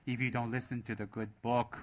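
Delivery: hammed-up hellfire preacher, booming on the key words; pulpit preacher. Teacher mimics a preacher waving a holy book, hammed-up pulpit thundering. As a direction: thunder mock warnings from the pulpit, drawing out the last words. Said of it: "I'm on a pulpit".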